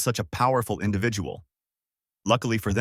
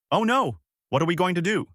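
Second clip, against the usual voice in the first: much higher, fretful big king; high worried giant voice; 8 semitones higher, faster than usual. A narrator's reading. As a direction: squeak out the panic like a gentle giant. Ox King dismayed.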